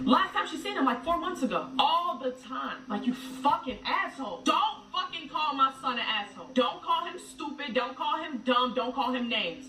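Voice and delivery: heated, high-pitched scolding; angry rant. Real, not acted. Mother furious at the ex who insulted her baby, angry. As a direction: tear into her for insulting my son.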